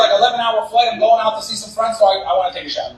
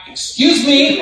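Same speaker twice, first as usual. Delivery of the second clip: high-pitched, rising call for attention; pitched-up, insistent appeal; retold polite demand; 5 semitones higher, much slower than usual. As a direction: act the entitled guest hailing a clerk. Guest calling the front desk clerk.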